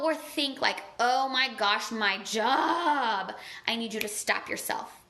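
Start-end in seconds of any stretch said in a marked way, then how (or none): 1.0-3.3 mock moaning. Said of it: "you feel a negative thought".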